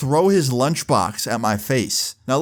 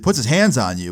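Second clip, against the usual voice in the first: retold incredulous question, punched on the hands; outraged echo. Brother hears kid is being bullied, outraged echo. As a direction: throw it back in protective disbelief.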